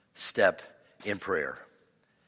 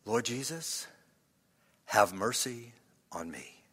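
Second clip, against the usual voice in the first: low half whisper with pauses; whispered prayer; 3 semitones lower, 4 dB quieter than usual. Shown as a demonstration. Preacher modelling a plea for mercy, half whisper. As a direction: pray it under your breath. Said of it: "what should you whisper".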